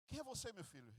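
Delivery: hushed and uneasy, a hint of fear; trembling father. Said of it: "O pai tremia".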